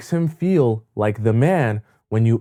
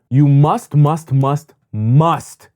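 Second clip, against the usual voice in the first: must, must, must, each louder and hammered; stress on must; 5 dB louder, much slower than usual. Shown as a demonstration. Coach telling women the rule, repeating must with force. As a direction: pound the word must three times over. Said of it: "repeated must for emphasis".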